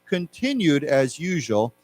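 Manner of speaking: slow, careful news reading. Acted. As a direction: read the headline story slowly and clearly. Reads news text aloud.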